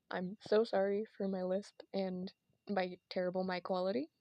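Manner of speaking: lisping through the s. Real, not acted. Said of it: "and I have a lisp".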